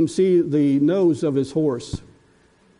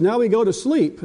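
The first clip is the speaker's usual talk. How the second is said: lightly voiced bossy little girl, pitched up; a hint of a toddler giving orders; granddaughter's voice; 6 semitones higher than usual. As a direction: grandpa imitating the girl running the pretend game. Granddaughter directs the game.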